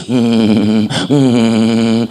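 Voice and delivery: low mock moan of a feverish man; lightly acted sickbed moaning, low and drawn; sick man groaning. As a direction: hum a weak, pained groan. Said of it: "lagi ngerintih".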